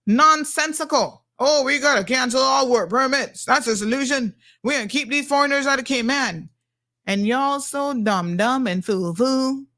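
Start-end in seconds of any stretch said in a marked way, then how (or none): 1.4-6.5 lightly voiced campaign pledge, a bit raised; mocking politician's promise. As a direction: parody a blustering politician's stump talk, slightly higher. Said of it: "jump up during the election and say something".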